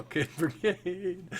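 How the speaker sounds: high, drawn-out mock call with a laugh; stretched-out echoing holler; playful echo call. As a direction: sing out a distant echo, amused. GM playfully echoes the cry, laughing.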